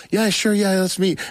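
high, over-agreeable mock reply; insincere agreement. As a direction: imitate saying yes just to escape. Acts out insincerely agreeing to meet.

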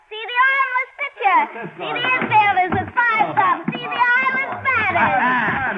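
a hint of a carnival barker; sideshow barker. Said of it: "That's great, Pearl. You tell 'em".

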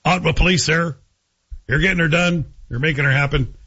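hammed-up rural Ottawa Valley twang; rural Ottawa Valley accent. Host plays a local at the police, in rural Ottawa Valley accent. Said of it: "It's kind of a rural accent".

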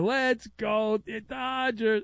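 a hint of a kid's slow chant; lightly voiced little kid, drawn out; slow chanted kid cheer, lightly done; cute little kid. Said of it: "with his cute little kid voice is going".

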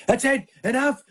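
high-pitched retold parental outburst; mock scolding. Dad walking in on daughters, mock scolding. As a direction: imitate a fed-up dad stepping in. Father retells yelling at daughters.

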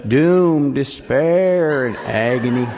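hammed-up doom and gloom; a hint of a melodramatic moan; mock Hee Haw lament. Pastor quoting Hee Haw as a mock lament. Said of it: "When you watch Hee Haw".

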